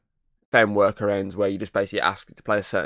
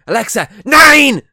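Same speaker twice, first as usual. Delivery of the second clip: high, loud, slow mock-German shout; thick German accent; 14 dB louder, slower than usual. Son ordering the radio off, shouting in thick German accent. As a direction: bellow it like a hammed-up German. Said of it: "in the most thickest German accent".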